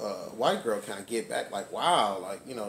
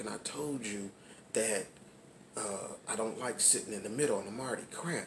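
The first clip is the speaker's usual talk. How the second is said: hushed, held-back half whisper; 7 dB quieter than usual. Retelling what the speaker said to her on a plane, kind of whispering. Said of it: "I'm kind of whispering".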